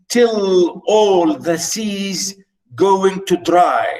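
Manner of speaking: slow, drawn-out verse line; poem reading. Acted. Teacher glossing the Scots line, slow recitation. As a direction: stretch out each word of the line.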